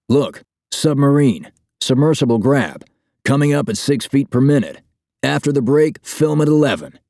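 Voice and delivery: high-pitched, scornful spelling-out of the obvious; scathing. A narrator's reading. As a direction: lay out each item with withering sarcasm, pitched well up. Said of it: "His tone is scathing".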